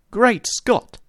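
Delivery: jolted by the sudden sight of George; shocked exclamation, pitched high; startled cry. A narrator's reading. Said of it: "I cried".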